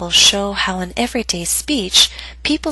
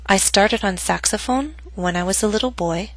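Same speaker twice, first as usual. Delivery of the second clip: put-on "boy" falls, but not to the lowest pitch; unfinished statement. Shown as a demonstration. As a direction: let "boy" dip only partway, as if more follows. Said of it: "my voice went down on boy, but not to its lowest pitch".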